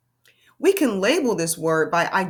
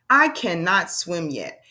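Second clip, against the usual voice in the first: reading aloud; slower than usual. Shown as a demonstration. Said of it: "Let's try another one".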